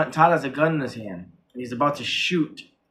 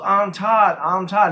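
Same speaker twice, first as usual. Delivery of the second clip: higher-pitched imitated yelling; mock yell; 5 semitones higher, 4 dB louder, slower than usual. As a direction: imitate a frantic insistence, not full volume. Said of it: "they're both yelling".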